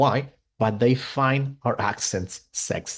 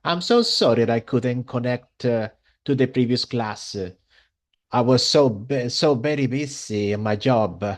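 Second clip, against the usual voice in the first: lightly imitated Italian accent in English; Italian-accented English, vowels tacked onto word endings; imitating Italian student. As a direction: mimic an Italian learner's English. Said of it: "this is the way she talks".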